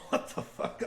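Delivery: breathy laughing what the fuck; laughing disbelief. Retold or imitated.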